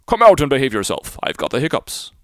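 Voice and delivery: loud booming call down into the belly; calling down his throat. Acted. The whale calls down his throat to the mariner, loud. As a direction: bellow down the throat, annoyed.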